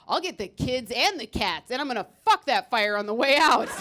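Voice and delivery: hammed-up tough guy boasting; macho firefighter. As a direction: boast like a reckless hero. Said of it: "the dude who's like".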